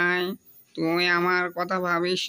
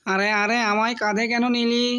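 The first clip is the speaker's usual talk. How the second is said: startled, higher protest; surprised protest; 4 semitones higher than usual. Acted. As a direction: caught off guard, protesting. Brother suddenly lifted onto shoulders.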